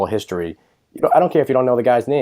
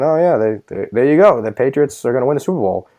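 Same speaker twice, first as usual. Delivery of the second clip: mock announcer; 3 semitones higher than usual. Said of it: "Joe Buck saying".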